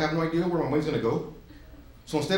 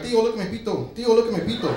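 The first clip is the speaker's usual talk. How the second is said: put-on gleeful kid; 6 semitones higher than usual. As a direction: chant it like a giddy little kid chasing you. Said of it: "I'm like".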